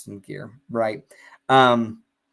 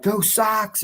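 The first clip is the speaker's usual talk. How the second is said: cheer; 9 semitones higher than usual. Retold or imitated. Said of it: "people are like".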